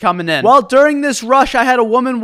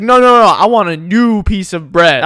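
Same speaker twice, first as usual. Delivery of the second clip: picky customer; 3 dB louder than usual. Retold or imitated. Angry customer quoted in story.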